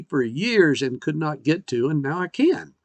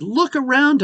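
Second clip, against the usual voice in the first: voice of God calling; 11 semitones higher than usual. Retold or imitated. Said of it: "he actually says".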